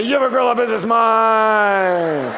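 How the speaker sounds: shouted with the high five, pitch up; hyped shout. Shown as a demonstration. Telling the audience to high five and say it, shouting. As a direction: yell it at your neighbour like a hype man. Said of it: "give 'em a double high five and say".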